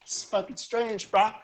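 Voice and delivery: loud dudebro taunt; bro voice. Acted. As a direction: sneer it like a gym bro. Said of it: "he's like".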